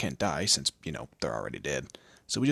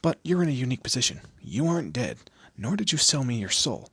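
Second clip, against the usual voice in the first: higher and louder on "you aren't dead"; emphatic point-making; 7 semitones higher, 5 dB louder than usual. Acted. Demon explaining the mortal's unique position, emphatic point-making.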